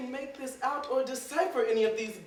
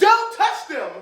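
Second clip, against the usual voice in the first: sharp order; 9 semitones higher, 8 dB louder than usual. Acted. Master snaps.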